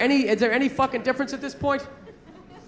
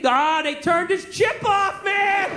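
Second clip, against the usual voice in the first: drawn-out lament, pitch climbing; slow hammed-up alarm at bad news; mock dismay; 4 semitones higher, slower than usual. Friend telling dude about Eddie's chip, mock dismayed.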